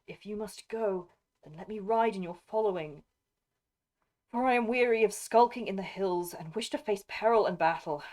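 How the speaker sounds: a hint of a weary shield maiden's plea; lightly voiced Eowyn, earnest. Lady asking to ride with him, lightly voiced plea.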